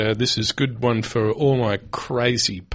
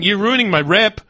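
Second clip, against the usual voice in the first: mock outrage; 9 semitones higher, 5 dB louder than usual. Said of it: "It's going".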